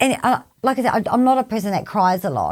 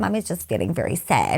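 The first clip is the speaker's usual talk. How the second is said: gentle explanation; 3 semitones lower, 6 dB quieter than usual. Retold or imitated. Retells soothing her concerned child.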